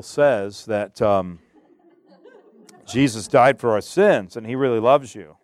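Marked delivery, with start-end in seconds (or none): 2.9-5.4 giggling through the words; chuckling while speaking; laughing. Retold or imitated. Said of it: "you laugh".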